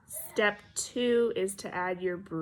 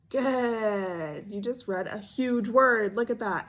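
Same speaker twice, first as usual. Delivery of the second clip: excited praise; 6 dB louder, slower than usual. Real, not acted. Teacher loudly praising a child for reading a big word. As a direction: cheer them on for reading a huge word.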